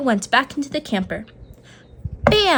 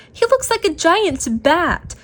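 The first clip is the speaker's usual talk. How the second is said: giggling; 7 semitones higher than usual. A narrator's reading. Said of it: "Mouse giggled".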